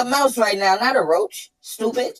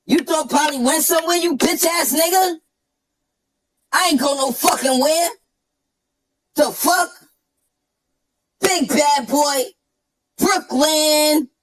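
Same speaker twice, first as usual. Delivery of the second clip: chipmunk voice; 3 semitones higher than usual. Shown as a demonstration. Showing the switch back into the chipmunk voice, yelling. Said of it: "come out of nowhere like this, watch".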